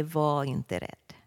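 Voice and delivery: soft, slow "Var inte rädd" as a gentle comfort; tender reassurance. Shown as a demonstration. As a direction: hand on the shoulder, say it slowly and softly. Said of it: "lägger Jesus sin hand och säger".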